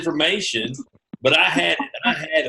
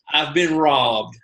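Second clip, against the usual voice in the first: slow lament; 2 semitones lower, slower than usual. Retold or imitated. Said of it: "was what I told her".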